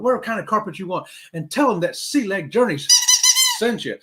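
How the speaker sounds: hammed-up carpet ad pitch, rising; mock commercial pitch. Vlogger imagining himself in a carpet commercial, hammed-up ad voice. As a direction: sell the carpet like a cheesy radio ad. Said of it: "some advertisers are gonna call me and say".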